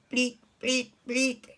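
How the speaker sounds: short, lightly imitated bleats; separate, level goat calls. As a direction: imitate a goat in little bursts. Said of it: "It goes bleat".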